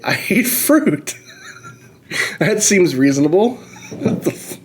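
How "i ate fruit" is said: deadpan answer. Retold or imitated. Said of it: "And I say".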